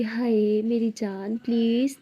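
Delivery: slow, sweet coaxing plea; lovingly coaxing. Acted. Lakshmi coaxing her friend sweetly to agree. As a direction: draw out the please lovingly. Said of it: "इतने प्यार से बोलती है".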